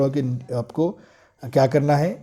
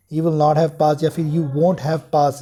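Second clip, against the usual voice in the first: very slow, each word spaced for students; slow dictation; much slower than usual. Shown as a demonstration. (धीरे-धीरे बोलकर लिखवाना)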